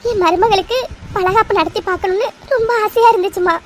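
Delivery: put-on mother-in-law crying with joy over the baby shower; tearful. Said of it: "எதுக்கு இப்ப நீ அழற".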